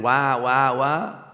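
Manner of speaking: imitating a newborn's wah wah cry lightly; a playful hint of a crying baby; mock baby wail. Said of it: "you're crying".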